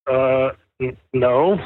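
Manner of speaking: hesitant "no" breaking into a laugh; started laughing. Retold or imitated. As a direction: stammer the answer, then laugh in disbelief. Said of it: "I just started laughing".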